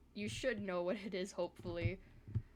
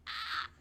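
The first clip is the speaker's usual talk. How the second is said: frustrated yelp. Real, not acted. Frustrated cry at software.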